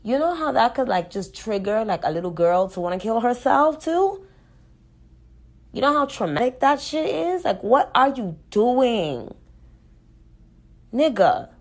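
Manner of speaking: high, loud, exasperated outburst; outraged. Real, not acted. Confronting a rapper over harm to a little girl, outraged.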